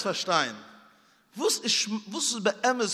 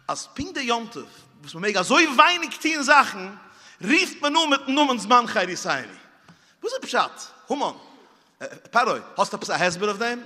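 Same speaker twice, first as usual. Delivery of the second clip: rapid preaching; 4 semitones higher, 5 dB louder, much faster than usual. Acted.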